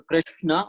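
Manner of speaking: Krishna in the first of two dialect forms; dialect variant. Shown as a demonstration. Teacher answering on dialects, Krishna sounded out carefully. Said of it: "as I said, the dialect difference".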